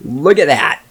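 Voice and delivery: drawn-out stunned delight; amazed at the fixed feed, slow and loud. Retold or imitated. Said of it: "I'm like".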